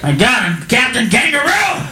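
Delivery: low, self-pitying actor moaning to himself; Kangaroo at home. Retold or imitated. Kangaroo alone at home complaining he was a real actor, low moaning. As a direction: mope about the wasted acting career, voice sunk low. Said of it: "Just at home going".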